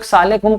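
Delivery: सालेकुम as one squashed word, "saa-le-kum"; swallowed greeting. Retold or imitated. Teacher mocking careless greeters, सालेकुम run together. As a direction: mimic a lazy contraction, सालेकुम. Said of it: "बहुत से लोग".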